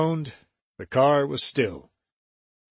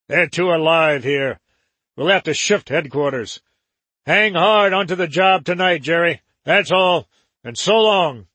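louder, raised boss voice; gang boss voice; 3 semitones higher, 5 dB louder than usual. Acted. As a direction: give the parting orders firmly. Joram voiced.

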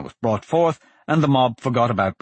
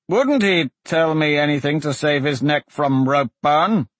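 lightly voiced magistrate, higher pitched; sceptical magistrate; 5 semitones higher, 3 dB louder than usual. Magistrate challenges the prisoner's witness, sceptical. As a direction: cast doubt from the bench.

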